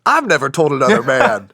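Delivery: amused, laugh slips in. Real, not acted. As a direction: laugh breaking into the line. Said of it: "same words twice, second emphatic".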